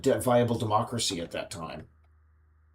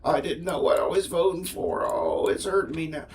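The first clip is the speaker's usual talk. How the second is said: mock Southern caricature; 6 semitones higher than usual. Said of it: "they all have the Southern accent".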